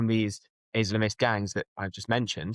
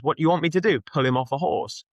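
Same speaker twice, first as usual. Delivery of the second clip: raised-pitch imitation of an officer; lightly voiced police officer; 5 semitones higher, 3 dB louder than usual. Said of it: "the police officer said to him".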